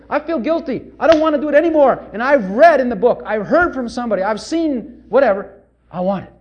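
loud pleading, then easing down; plea that fades into a plain request; sample prayer. Shown as a demonstration. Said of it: "Simple prayer like that".

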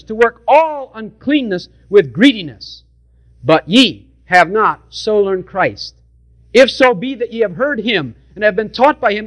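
measured King James reading; scripture reading. Real, not acted. Preacher reading Ephesians to the congregation, measured scripture voice. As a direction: read it out like holy writ.

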